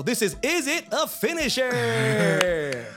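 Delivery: slow, stretched game show title. Acted. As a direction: announce the title like a host. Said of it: "game show voice".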